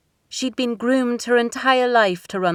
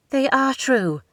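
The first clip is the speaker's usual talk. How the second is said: sharp, higher retort; a quick defiant comeback; shot back; 7 semitones higher, slower than usual. A narrator's reading. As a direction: fire it straight back at her. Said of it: "she shot back".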